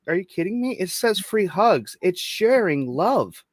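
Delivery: arguing with the HR lady, high and incredulous; incredulous mock protest. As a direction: act baffled at the complaint. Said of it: "And I'm like".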